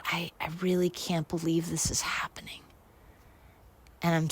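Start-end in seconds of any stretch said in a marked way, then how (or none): 0.0-2.6 hushed, voiceless disbelief; tearful whisper. Retold or imitated. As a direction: whisper it to yourself, stunned. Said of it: "I just start crying".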